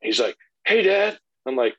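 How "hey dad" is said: put-on high, loud little-boy greeting; super hyped kid. Son greeting dad in the morning, super pumped imitation. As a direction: imitate a child bursting to start the day. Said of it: "super hyped, super pumped to start the day".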